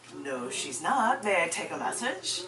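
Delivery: slow, polite phone manner; most cordial voice. Retold or imitated. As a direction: answer the caller with careful courtesy. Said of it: "put on my most cordial voice".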